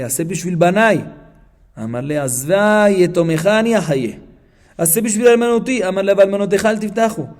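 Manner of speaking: reading Aramaic aloud in phrases; Talmud text recitation. Acted. Teacher reading the Gemara to students, recitation. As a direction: recite the source text, rising into the quoted pleas.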